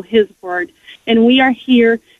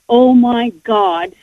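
sincere awe; slower than usual. Retold or imitated. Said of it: "but you meant it".

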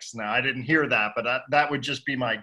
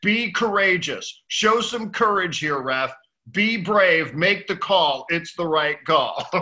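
raised, drawn-out mock plea; retold imploring; 5 semitones higher, 4 dB louder, slower than usual. Defender imploring the ref for a penalty, retold as an emphatic plea. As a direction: press each phrase slowly, imitating a player's appeal. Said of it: "he just was imploring the ref".

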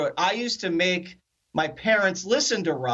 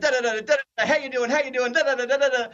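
always-on chatter; 6 semitones higher, much faster than usual. Retold or imitated. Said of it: "He's always on".

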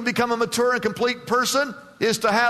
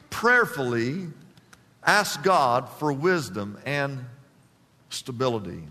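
prayerful repeat; 8 semitones lower than usual. Shown as a demonstration. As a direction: let it sink in, slow and hushed.

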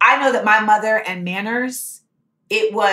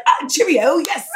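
mock South African cheerio, pitched up; South African accent; 5 semitones higher than usual. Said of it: "with a South African accent".

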